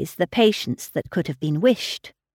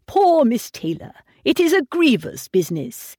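put-on higher, querulous old man lamenting; fretful old father; 5 semitones higher than usual. A narrator's reading. Old father lamenting to his daughter, higher querulous voice. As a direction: voice a fussy old gentleman grieving. Mr Woodhouse mourning Miss Taylor.

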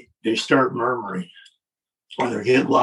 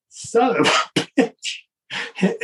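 mock startled curse; 8 semitones higher, much slower than usual. Vince startled by whistle.

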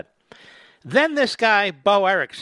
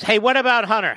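reporter calling out; 6 semitones higher, 5 dB louder than usual. Retold or imitated. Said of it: "somebody says".

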